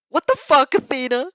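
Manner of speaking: loud, high shocked swear; shocked outburst. Acted. Shocked classmate yelling at Athena, loud and high. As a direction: blurt it out, stunned.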